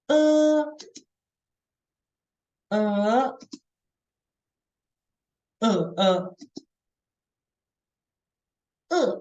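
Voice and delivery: e through first, second, third and fourth tones. Shown as a demonstration. Teacher drilling the four tones on e. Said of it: "Then we practice".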